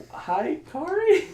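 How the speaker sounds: very high, slow cartoonish hello; mock squeaky greeting. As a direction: stretch the greeting in a playful high voice. Plays out the greeting in Kari's scene.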